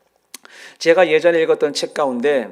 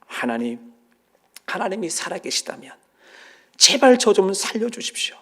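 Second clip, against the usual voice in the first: pleading prayer; 3 semitones higher than usual. Retold or imitated. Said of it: "하나님 앞에 기도를 했답니다".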